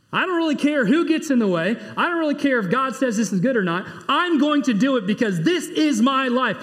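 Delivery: mock headstrong insistence; stubborn defiance. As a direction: insist on doing it your way. Voicing self-willed person.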